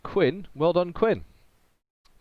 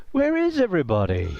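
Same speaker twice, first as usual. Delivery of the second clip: bewildered wanderer calling out high and loud; lost wanderer; 7 semitones higher, 5 dB louder than usual. Acted. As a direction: call out into an empty warehouse. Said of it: "wandering around in the fucking warehouse".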